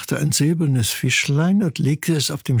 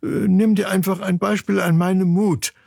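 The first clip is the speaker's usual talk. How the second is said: higher, self-important chick voice; boasting; 6 semitones higher than usual. Acted. Brother chick offers his courage as an example, bragging. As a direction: brag like a cocky little brother. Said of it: "prahlte ihr Bruder".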